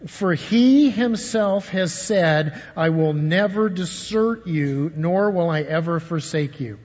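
slow, deliberate, every word weighed; slow scripture reading. Shown as a demonstration. Pastor leading the church through the verse, slow and deliberate. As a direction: read the verse slowly so they can follow. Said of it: "It says".

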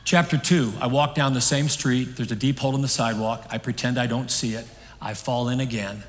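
measured chapter-by-chapter reading, easing off; recited reading. Acted. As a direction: read it out in short declarative lines. Reads a closing illustration aloud.

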